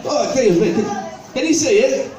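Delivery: high, hammed-up disbelief; mock dismay. Comic showing the audience what he's done, mock-horrified. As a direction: point out the mess, aghast.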